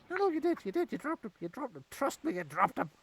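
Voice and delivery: high, insistent goblin voice. Acted. Goblin to the parents, an insistent high goblin voice.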